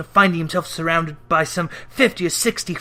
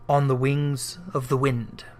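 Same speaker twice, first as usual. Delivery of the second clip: weary ghost; 4 semitones lower, 5 dB quieter than usual. Acted. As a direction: lament endless wandering. Ghost voice held.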